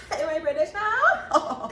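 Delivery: slow, laughing mock-British question; amused at her own accent. Real, not acted. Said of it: "You said that with, like, a British".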